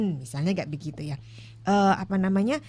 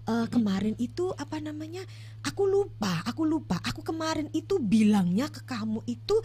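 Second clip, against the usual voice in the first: casual gentle asking; 3 semitones higher than usual. Retold or imitated. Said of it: "tapi bilangnya".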